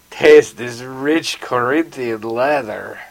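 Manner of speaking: slow, drawn-out pitchman line; lightly voiced suave accent, taken slowly; Ricardo Montalban. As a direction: stretch it out like a hint of an impression. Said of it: "start with a bass of Ricardo Montalban".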